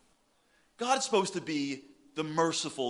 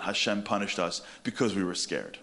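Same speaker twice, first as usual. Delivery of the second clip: ordinary talk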